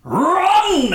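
high, loud comic yell; mock yell. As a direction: burst out yelling in sudden mock alarm. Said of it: "he just goes".

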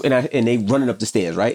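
ordinary talk, nothing marked

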